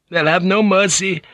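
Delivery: high tearful wail; high-voiced weeping villager. A narrator's reading. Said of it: "Ninjin had wept".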